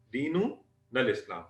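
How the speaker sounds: "दीनुनल इस्लाम" said slowly, each syllable spaced for students; slow drilled repeat. Shown as a demonstration. Teacher repeating the answer for the class, slowly. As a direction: model it slowly so the class can copy. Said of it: "तो आप क्या बताएंगे?".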